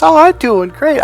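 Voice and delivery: put-on high, loud, chirpy girl's voice; imitated happy teen. Goddaughter back a week later feeling good, imitated cheer. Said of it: "just feeling good".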